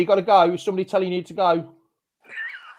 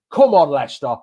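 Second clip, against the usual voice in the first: rallying cry; 7 dB louder than usual. Real, not acted.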